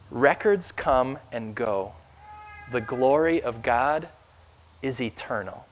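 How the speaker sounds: slow, soft and reverent, stretching Records come and go; quiet reverent reading. Real, not acted. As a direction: read it gently, like a quiet prayer. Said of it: "it's like she's downplaying it".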